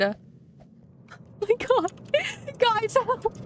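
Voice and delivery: high, weak plea through giggles; laughing too hard to talk; helpless laughter. Real, not acted. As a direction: gasp it out while cracking up. Helpless laughter over screenshots.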